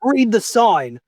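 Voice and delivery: gruff guard barking oi at a goblin; a guard calling out, high and sharp; guard's challenge. Acted. Guard stops goblin at gate.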